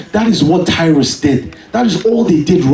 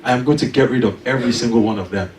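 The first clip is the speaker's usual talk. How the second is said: quick, quiet, matter-of-fact boss; confident; 4 semitones lower, 4 dB quieter, faster than usual. Retold or imitated. Boss calmly promising to fire every critic. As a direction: state it coolly, as settled fact. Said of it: "He said that confidently".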